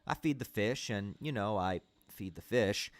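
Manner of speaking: "you know, I", short pause, then "feed the fish"; imitated interviewee inflection. Host answering about his spare time with the quote, imitated inflection. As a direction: lightly copy his halting "I... feed the fish" phrasing. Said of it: "If somebody asks me what I do in my spare time, I say".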